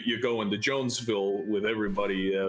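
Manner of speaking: hesitant, stumbling invitation; nervous, gulping air. Acted. Shy character hopes to meet friend again, nervous and hesitant. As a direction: stammer and trail through a shy request. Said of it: "just is gulping air".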